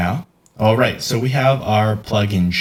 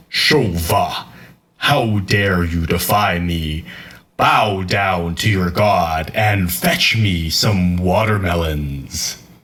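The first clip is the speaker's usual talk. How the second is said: oppressive, domineering god-like voice; 3 semitones lower than usual. Recording a voiceover line as a god scolding a servant: oppressive god voice. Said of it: "voice actor mood".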